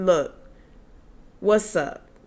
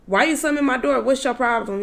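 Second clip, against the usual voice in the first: higher-pitched, indignant questioning; retold confrontation; 5 semitones higher, faster than usual. Upset driver challenging her passenger over the slammed door, indignant. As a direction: demand an explanation, pitched up.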